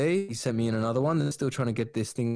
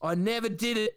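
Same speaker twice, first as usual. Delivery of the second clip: much higher, flustered denial; panicked Ricky; 8 semitones higher than usual. Retold or imitated. Ricky denying the scandal to Wayne, high and panicky. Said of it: "Ricky's like".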